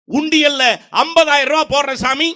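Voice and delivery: high, loud bargaining plea; pleading devotee. Retold or imitated. Man bargaining with a holy man, high loud plea. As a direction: push the offer eagerly, acted.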